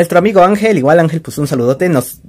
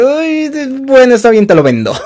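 retold giving in; 7 semitones higher than usual. Seller to buyers offering plenty of money, reluctantly giving in. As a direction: act out caving to an offer, starting high. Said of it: "Y así de".

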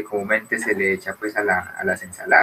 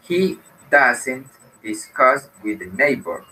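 slow model sentence; 3 semitones higher, slower than usual. Shown as a demonstration. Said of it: "sería doesn't".

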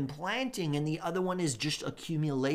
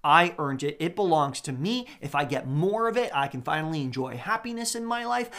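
greedy voice; 5 dB louder than usual. Acted.

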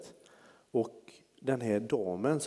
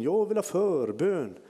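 higher, slow plea; slow, higher old woman's request; old lady calling; 6 semitones higher, 4 dB louder, slower than usual. Retold or imitated. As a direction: call out slowly, asking for prayer. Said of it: "ropar hon med rollatorn".

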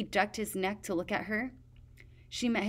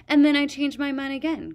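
gleeful; 7 semitones higher, 8 dB louder than usual. A narrator's reading. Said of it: "Queen Scarlet said".

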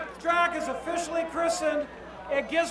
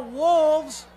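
loud rally shout; yelled cheer; 7 dB louder than usual. Shown as a demonstration. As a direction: yell the team name. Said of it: "everybody's gonna yell".

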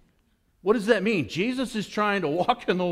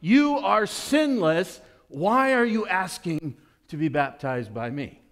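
protesting John; 3 semitones higher, 3 dB louder, much slower than usual. Retold or imitated. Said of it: "He's like".

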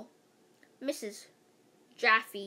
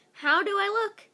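put-on higher, louder fussy girl; girly primping voice; 8 semitones higher, 7 dB louder than usual. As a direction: ask it like a vain little girl. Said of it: "asked Andrea".

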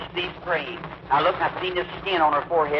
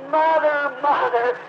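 a high, loud cry of joy for his mother; son's high, loud cry as his mother wakes; 11 semitones higher, 4 dB louder, much slower than usual. Retold or imitated. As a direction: call out to her, overcome. Son cries out at revived mother.

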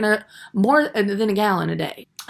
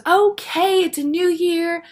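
mock friend's speech; 9 semitones higher, 4 dB louder, slower than usual. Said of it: "She goes".

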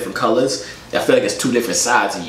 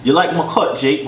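put-on accidental British accent, slightly raised pitch; 3 semitones higher than usual. Streamer echoing a stranger's compliment, in a British accent. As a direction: slip into a light British accent. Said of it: "switch to a British accent".

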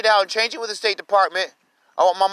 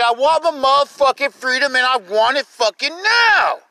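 demanding; 4 semitones higher, 3 dB louder than usual. Real, not acted. Closing demand repeated louder.

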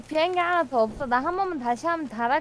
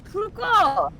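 loud, high yelled order; shouting match; 6 semitones higher, 4 dB louder, much slower than usual. Pretend. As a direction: yell it over the noise. Yelling over noise.

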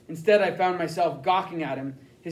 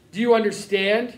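louder, a demanding yell; 3 semitones higher, 5 dB louder than usual. Acted. Interrogator yelling at the boy to obey. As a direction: bark the question at the boy. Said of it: "he yelled".

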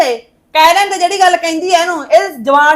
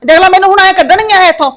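raised-voice indignant complaint; noisy complaint. Acted. Mother complains to daughter about being thrown out, noisy and indignant. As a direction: complain noisily, wanting everyone to hear. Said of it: "ਕੀ ਹੋ ਗਿਆ ਇੰਨਾ ਰੌਲਾ ਪਾਇਆ".

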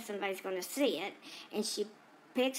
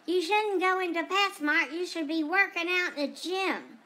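higher-pitched mock yell; imitated scream; 5 semitones higher than usual. Guys in a truck yelling at a shopper, mock scream. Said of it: "drove by in a truck and screamed".

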